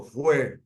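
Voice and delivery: "fue" set apart as the accented syllable; single out "fue" with a firm beat; stress on first syllable. Shown as a demonstration. Teacher repeating the accented first mora, "fue" stressed. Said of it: "en la primera mora".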